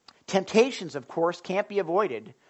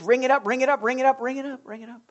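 carefree spender; 5 semitones higher, faster than usual. Pretend. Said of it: "I don't have to think about it".

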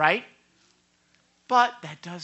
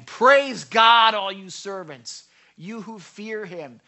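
proclaimed praise; 9 dB louder, slower than usual. A narrator's reading. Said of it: "a voice came from the throne".

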